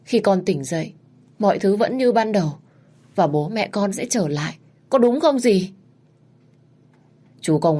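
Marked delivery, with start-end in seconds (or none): 0.0-5.7 high tearful pleading; cling to the dream; begging aunt to say it is a nightmare; pleading denial. Acted. Daughter denies parents' death.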